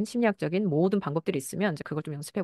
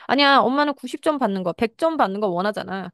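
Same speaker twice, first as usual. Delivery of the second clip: put-on child voice; 4 semitones higher, 4 dB louder than usual. Child pushes back at mother.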